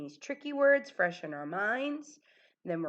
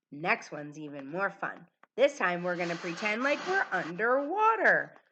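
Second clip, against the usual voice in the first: ordinary talk, nothing marked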